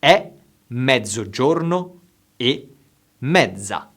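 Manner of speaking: slow and carefully enunciated; slow, over enunciating. Shown as a demonstration. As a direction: say each word slowly and clearly. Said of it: "I will say it slowly".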